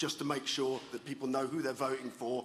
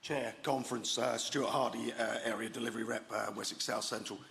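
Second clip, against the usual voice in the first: hoarse, croaky throat; 3 semitones lower than usual. Real, not acted. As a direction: speak through a sore, croaky throat. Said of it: "excuse my croaky voice".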